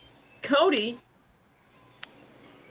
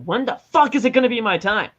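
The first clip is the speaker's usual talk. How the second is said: louder, exasperated demand; frustrated rant; 6 dB louder than usual. Pretend. Fan voicing Cody's frustration, mock angry rant. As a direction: vent it like a fed-up wrestler.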